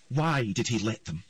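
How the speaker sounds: the queen snaps at the kneeling earl; queen shouting. A narrator's reading. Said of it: "shouted the queen".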